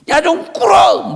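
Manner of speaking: high, slow, loud order; commanding shout. Acted. The angel ordering Jacob to kneel, shouting. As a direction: bellow it at the stubborn man.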